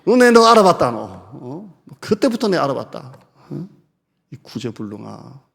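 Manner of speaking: mock scolding. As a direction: tell him off as a lost cause. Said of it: "나는 그랬을 것 같아요".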